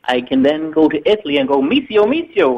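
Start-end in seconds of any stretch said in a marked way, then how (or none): 1.6-2.6 high sing-song missio call; coaxing high call of missio; Italian cat call. Shown as a demonstration. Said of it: "which is apparently how you get an Italian cat to follow you".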